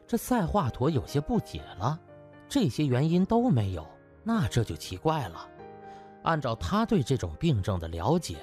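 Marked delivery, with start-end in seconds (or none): none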